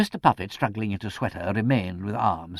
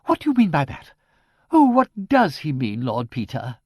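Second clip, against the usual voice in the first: much higher and louder, panicky plea; alarmed spinster; 6 semitones higher, 7 dB louder than usual. A narrator's reading. Frightened niece asking Lord Peter about her uncle, high and panicky. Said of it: "shrieked Miss Twitterton".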